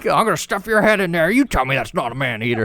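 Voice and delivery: high gruff New York tough; hammed-up New York bully; New York accent. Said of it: "thick New York accent".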